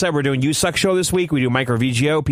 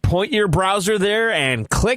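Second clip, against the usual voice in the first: used car salesman; 2 semitones higher, slower than usual. Acted. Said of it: "talking like a used car salesman".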